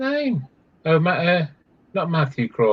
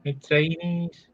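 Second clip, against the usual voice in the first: put-on Manx accent; 6 dB quieter, much slower than usual. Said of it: "like, Manx?".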